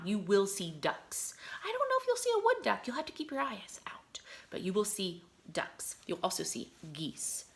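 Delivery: hushed, secretive promise; whisper. Real, not acted. Teacher telling kids about ducks at the pond, whispered.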